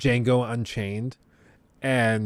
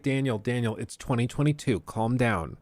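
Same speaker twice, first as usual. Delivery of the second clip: softer, reasoning aside; calming down; 5 dB quieter than usual. Retold or imitated. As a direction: talk the actor down. Reasoning with screaming actor.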